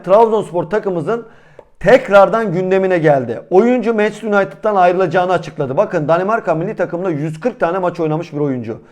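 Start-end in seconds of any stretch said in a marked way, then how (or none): 5.8-8.8 slightly out of breath, catching breath; talking while short of breath. Real, not acted. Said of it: "Nefesim kesildi".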